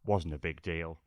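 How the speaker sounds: modest Brit. Retold or imitated. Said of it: "you just go".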